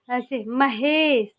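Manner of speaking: slow महेश, stretching the ए in महेश; drawn-out vowel. Shown as a demonstration. Teacher to students, stretching महेश slowly. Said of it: "तो S आ गया".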